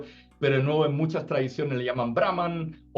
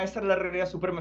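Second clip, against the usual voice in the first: mock claimant; 7 semitones higher, faster than usual. A hint of another mocking claim to supremacy. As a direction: parody a second tradition's claim. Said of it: "como me parecía eso".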